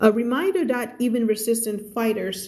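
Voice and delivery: slow, careful story reading for learners; measured teacher's narration; slow read-aloud. Acted. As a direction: read the story word by word, clearly.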